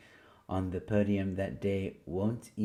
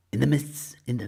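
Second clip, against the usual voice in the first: movie trailer voice; 4 semitones higher, 5 dB louder, faster than usual. Pretend. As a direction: boom it out like a trailer. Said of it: "Movie voice time".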